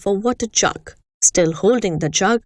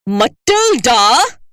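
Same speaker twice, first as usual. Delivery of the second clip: slow, louder bark of the name; 2 semitones higher, 5 dB louder, much slower than usual. Acted. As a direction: summon the girl like a drill sergeant. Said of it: "she barked".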